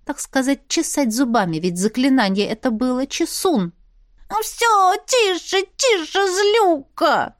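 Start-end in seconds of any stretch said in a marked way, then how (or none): 4.3-7.4 much higher, yelping wolf voice; wolf wailing. A narrator's reading. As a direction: wail with a bitten tail, high. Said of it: "завопил Бел". (Бел вопит высоким голосом)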